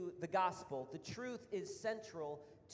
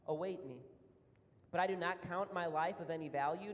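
steady, measured reading of the passage; scripture reading. Acted. Preacher reading Acts to the church, measured scripture reading. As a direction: read it out to the congregation like scripture.

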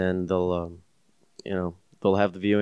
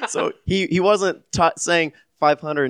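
laughing; 9 semitones higher than usual. Real, not acted. Laughing while asking.

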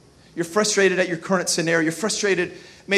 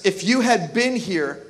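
grieving Martha; 4 semitones lower, slower than usual. Retold or imitated. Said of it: "Martha said to Jesus".

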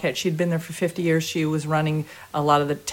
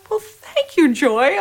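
lightly voiced panel; 7 semitones higher, 3 dB louder, slower than usual. Panel thanking her.

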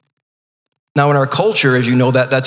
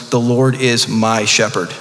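slow, lower, savoring each word; joyful proclamation; 4 semitones lower, slower than usual. Shown as a demonstration. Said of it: "the joy in David's voice when he proclaims".

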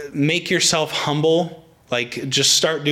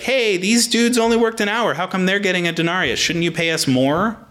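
higher-pitched mock complaint, mildly outraged; mock indignant; 6 semitones higher than usual. Workers complaining about unequal pay, mock indignant. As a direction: protest like a worker who feels cheated. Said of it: "They got really mad".

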